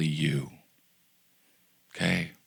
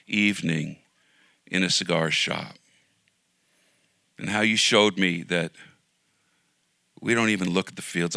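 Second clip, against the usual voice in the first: steady spoken prayer to God; closing prayer. Acted. Pastor closing the service praying to God, sincere prayer. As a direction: pray it simply and sincerely.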